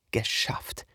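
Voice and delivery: relieved breathy whisper. Acted. Relief after sneaking past.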